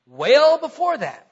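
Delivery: well stretched into a Southern weyl; drawled well with a Southern vowel; Southern drawl slip. Real, not acted. Preacher slipping into Southern drawl. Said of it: "That's a good Southern accent there".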